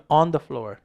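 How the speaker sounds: "on" with an open "ah" vowel in "on the floor"; correct vowel. Shown as a demonstration. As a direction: model "on the floor" as "ahn the floor". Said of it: "일단 발음이 on이 아니고요". ("on"을 '안'에 가깝게 열어서 발음)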